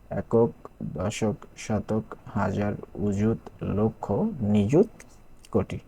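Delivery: each place name said slowly, one by one; slow recitation. Shown as a demonstration. Teacher reciting place names to pupils, slow and deliberate.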